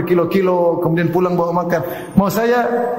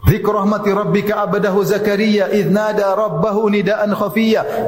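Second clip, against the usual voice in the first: even, steady recitation of Arabic scripture; Quran recitation; 2 semitones higher than usual. Acted. Preacher quoting the prayer of Zakaria, measured recitation. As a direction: recite the verses in one continuous measured flow.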